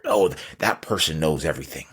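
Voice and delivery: lightly mocking people who praise the smart jerk; a hint of sarcastic awe at "that person"; mock admiration. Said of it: "quote unquote, smart".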